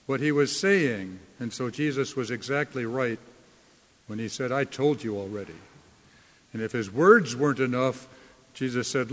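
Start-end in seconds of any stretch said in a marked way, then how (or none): 4.5-5.6 low, quick, mildly weary reply; tired of them. Acted. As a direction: answer as if tired of being asked. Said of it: "answered as if he were tired".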